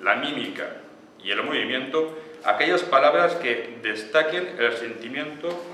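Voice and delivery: slow, declamatory reading in separate phrases; reading a definition aloud. Acted. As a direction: read it out deliberately, phrase by phrase. Reads chosen definition aloud. (lectura declamatoria y pausada)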